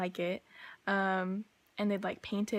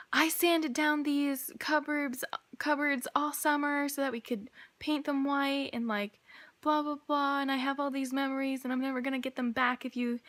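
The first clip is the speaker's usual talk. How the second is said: mock yelling; 5 semitones higher than usual. Ranting at the two ladies about her sanded cupboards, mild mock yell. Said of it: "going ham at these two ladies".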